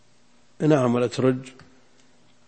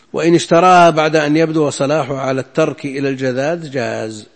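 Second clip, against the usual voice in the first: louder, measured classical recitation of a text; formal text reading; 7 dB louder than usual. Acted. Teacher reading a law text to students, formal reading aloud. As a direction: read the passage out firmly, starting loud.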